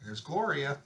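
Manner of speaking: ordinary delivery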